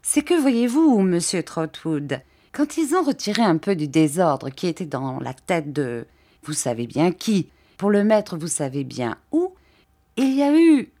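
lightly voiced gentle old man, hesitant; timid old Mr Dick. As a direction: shyly ask permission, lightly voiced.

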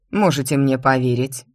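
usual speaking voice

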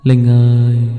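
a haunting, sung call from outside the door; eerie ghostly call. A narrator's reading. Ghost of the father calling Linh at night, eerie singsong. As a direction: croon her name like a ghost. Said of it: "nghe có tiếng gọi".

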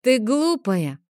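put-on a boy scolding his sister as silly; bratty know-it-all; childish taunt. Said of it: "заявил ей Теодор".

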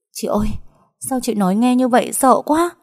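high-pitched, anxious little-sister plea; scared whine to big sister; frightened. Acted. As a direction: let the fear push your pitch right up. Frightened girl reacts to sister's warning.

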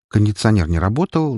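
ordinary delivery

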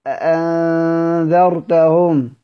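أنذرتهم with the second hamza between hamza and alif; eased hamza demo. Shown as a demonstration. Teacher gives a recitation example, eased hamza in أنذرتهم. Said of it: "أجعلها بين الهمزة والألف".

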